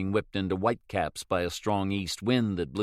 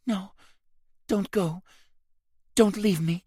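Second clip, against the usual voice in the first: begging; 11 semitones higher than usual. A narrator's reading. Wounded Rose begs him to stay.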